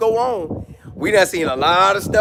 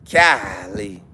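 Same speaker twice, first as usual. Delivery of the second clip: ordinary talk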